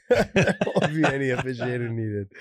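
laughing through the line. Real, not acted. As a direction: say it again while laughing. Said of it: "repeats the line laughing".

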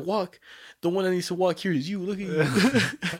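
mocking comeback. Mocking the fat seller back, slow taunting jab.

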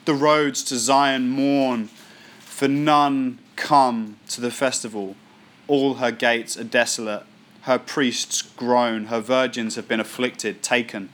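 slow, weighty reading of a lament; grave, unhurried lament reading; solemn scripture reading. Acted. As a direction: read it like a mournful psalm.

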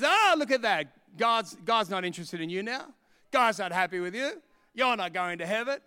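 lightly voiced taunting accuser; a hint of a gloating devil, loud at first; the enemy's voice. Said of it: "that is the enemy's voice".

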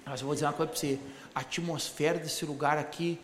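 voz bem mais grave e lenta, de malandro; imitando o camarada. Retold or imitated. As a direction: imite o rapaz com a voz grave e arrastada. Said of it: "Eu vou inverter as palavras que ele falava". (imitação grave do visitante empolgado)

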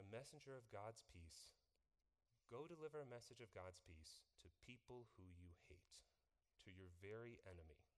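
God gently sending Jonah to his enemies; gentle voice of God. Retold or imitated. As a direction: speak it calmly, like a kind command.

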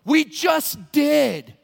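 very slow, deadpan "We just did"; dead serious. Acted. Experts answering the pleading pilgrim, dead serious. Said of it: "they all look at you dead serious and go".

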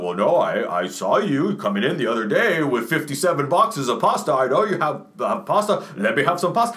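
a hint of a pleading calm neighbor; lightly voiced neighbor asking for pasta. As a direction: neighbor begging for pasta, mildly acted. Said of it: "then he's gonna be like".

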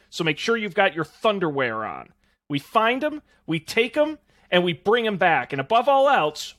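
lightly put-on tough action hero; a hint of a gruff action star; half-assed Rock impression. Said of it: "that was my half-ass rock impression".

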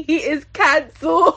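laughing. Real, not acted. Laughing at the clip.

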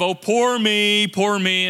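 slow, whiny "poor me" mockery; mock self-pity. Preacher mocking a victim mentality to his church, slow whine. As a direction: mimic a sulking victim, drawn out. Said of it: "with the attitude of".

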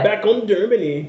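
playful imitation of a German accent; imitated German accent. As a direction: tease with a put-on German accent. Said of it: "like, a little accent".

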